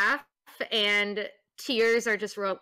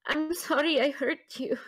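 mildly tearful, higher-pitched apology; a touch of hurt, pitched up; 6 semitones higher than usual. Acted. Tearful character apologizes after wiping tears.

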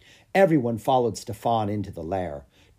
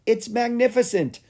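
much higher voice full of wonder; awed exclamation; 12 semitones higher, 4 dB louder than usual. A narrator's reading. Lucas seeing the dragon, high awed exclaim. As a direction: marvel at it. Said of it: "said Lucas".

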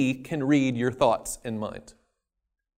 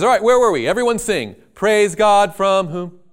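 brisk resumption; 4 semitones higher, 6 dB louder than usual. Acted. God resuming song after execution.

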